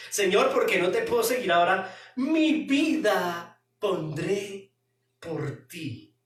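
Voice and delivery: fast, pushy, stubborn Peter; a hint of a headstrong disciple insisting. Preacher voices Peter insisting to Jesus, stubbornly pushy. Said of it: "O sea, todo, todo terco".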